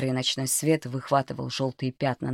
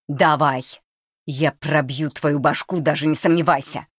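threatening shout; 4 dB louder than usual. Acted. Boy threatens the stranger in the dark, menacing shout. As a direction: bark it, dead serious. Volodya threatens figure with knife.

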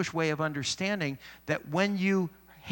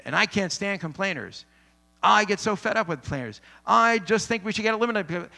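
mock exasperated rant, louder and higher; fed-up complaining; 4 semitones higher, 4 dB louder than usual. Someone griping about complainers, mock fed up. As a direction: build up a hammed-up gripe.

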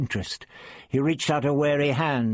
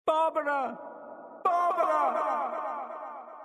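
a high, distant, long-drawn call; faint anxious echo; 5 dB quieter, much slower than usual. Acted. Vicky calling for Barbara from afar, a faint anxious echo. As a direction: call out from far away, anxious and fading. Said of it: "a faint, anxious echo".

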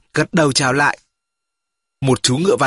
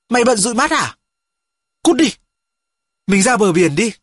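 teasing friend; 4 semitones higher than usual. Acted.

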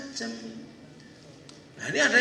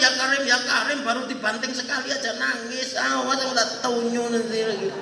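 emboldened taunting; 4 dB louder than usual. Acted. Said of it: "orang ini tambah semangat".

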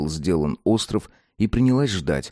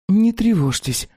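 reassuring; 13 semitones higher, 3 dB louder, slower than usual. Acted. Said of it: "чтобы тон её звучал ободряюще".

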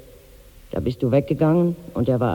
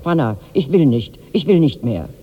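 retold shout; 5 dB louder than usual. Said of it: "schrie er laut".

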